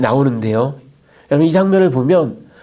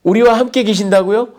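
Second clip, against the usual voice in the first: high, disbelieving question stressing 우리와; higher, indignant disbelief on 우리와; incredulous retort; 6 semitones higher than usual. Acted. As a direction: throw the 우리와 back in disbelief. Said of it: "당돌하게 하나님을 비난합니다".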